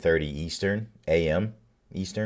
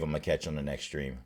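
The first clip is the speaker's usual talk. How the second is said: fading sign-off; 4 semitones lower, 9 dB quieter than usual. Real, not acted. Signing off the stream.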